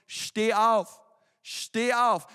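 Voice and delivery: loud firm command to rise; commanding call. Retold or imitated. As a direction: call the dead boy up with authority. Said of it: "sprach Jesus".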